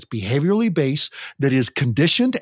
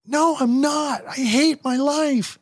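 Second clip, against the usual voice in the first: put-on much higher, slow whiny teen voice; hammed-up moody teenager; sulky teen; 12 semitones higher, slower than usual. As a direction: whine it like a miserable teenager. Teen answering the parent.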